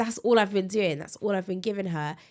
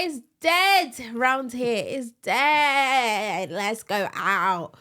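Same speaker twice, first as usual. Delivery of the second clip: slow, louder, alien-like voice; 3 semitones higher, 5 dB louder, much slower than usual. Retold or imitated. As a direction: drag it out like an alien. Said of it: "It sounded like an alien just then".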